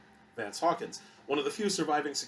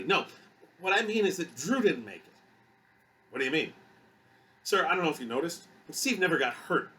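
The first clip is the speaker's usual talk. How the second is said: higher, louder, insistent venting; agitated security guard; 6 semitones higher, 4 dB louder than usual. Acted. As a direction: pour out your disbelief to a superior. Voices distressed Hawkins venting to captain.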